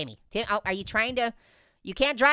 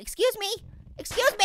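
mock polite; 10 semitones higher than usual. Polite mock call to NPCs.

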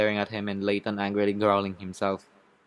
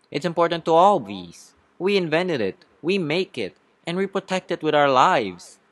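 earnest courtroom plea; 5 semitones higher than usual. Acted. Bee pleads to the jury.

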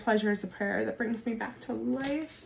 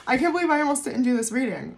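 fast, louder, laughing through the words; giddy disbelief spilling out in laughter; 5 semitones higher, 5 dB louder, faster than usual. Real, not acted.

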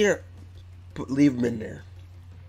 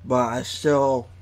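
slightly lisping around false teeth; talking with fake teeth in; 3 dB louder than usual. Real, not acted. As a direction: mouth stretched over dentures. Seen 1: Teeth inserted at -4, mouth open showing them while talking.

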